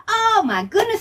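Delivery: put-on high, bright "oh my goodness" for kids; excited gasp. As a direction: gush with delight for children. Storyteller's excited exclamation.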